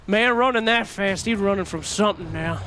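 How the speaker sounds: a light southern drawl on the commentary; mock casting in a southern accent. Caster imagines commentating in a southern accent. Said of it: "imagine we were casting this game like".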